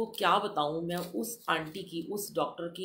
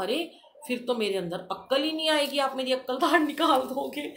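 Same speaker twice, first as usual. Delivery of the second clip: cheeky joke; 7 semitones higher, 6 dB louder than usual. Retold or imitated. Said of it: "और मैंने कहा".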